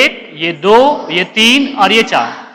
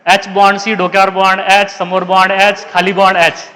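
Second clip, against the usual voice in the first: "डोक्यावर बॉन्ड एच" read out in Marathi as a teasing joke. Shown as a demonstration. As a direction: switch the readout to Marathi, playfully. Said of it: "तो क्या मराठी में पढ़ना है?". (मज़ाक में मराठी में पढ़ना)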